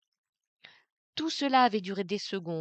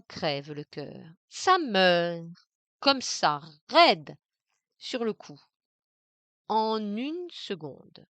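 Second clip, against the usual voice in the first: mock sob; 5 dB louder, slower than usual. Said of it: "simulant un sanglot".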